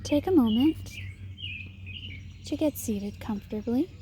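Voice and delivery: measured meditation guide, long pauses between phrases; guided meditation. Acted. Meditation leader guiding listeners to settle and notice their breath, guided meditation. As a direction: lead them gently through it, leaving space after each instruction.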